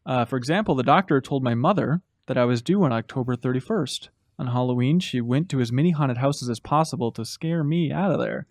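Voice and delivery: low, hushed campfire-tale delivery; spooky letter reading. Pretend. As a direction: read it low, like a mock ghost story. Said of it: "Get ready to get a stumble spooky".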